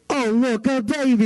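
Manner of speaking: put-on high-pitched cooing over a baby; sudden adoring squeal, put on; imitating doting strangers. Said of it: "They suddenly go".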